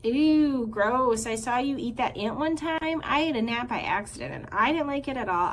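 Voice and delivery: breathless chatter. Acted. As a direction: ramble without a breath like a hyper squirrel. Squirrel chatters on.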